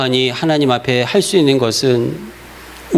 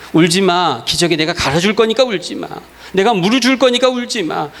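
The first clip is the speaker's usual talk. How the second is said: lightly voiced parent, higher and coaxing; parent comforting baby; 5 semitones higher than usual. Parent promising care to a crying baby, gently coaxing. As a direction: promise the baby everything will be fine. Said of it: "엄마, 아빠가 울지 말라고 하는 것은".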